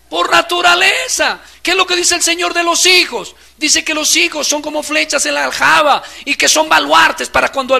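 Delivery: loud, high fervent preaching; preaching at full force. Acted. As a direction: thunder it at the congregation. (predicación fervorosa a todo volumen)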